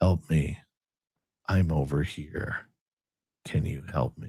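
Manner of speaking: soft, toneless, flat, level monotone woman's voice. Telling a story, imitating a woman's voice heard in the background: flat monotone. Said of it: "And it's all monotone".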